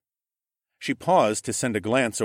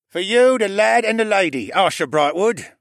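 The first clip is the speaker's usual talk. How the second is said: higher, louder formal offering; guardsman presenting; 11 semitones higher, 8 dB louder than usual. A narrator's reading. Guardsman presenting the canterflies to Asher, formal and raised. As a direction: hand over the reins with ceremony.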